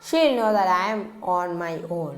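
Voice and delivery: even, unhurried audiobook reading; steady storyteller voice; story narration. A narrator's reading. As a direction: read the novel aloud to listeners. Reads a novel aloud.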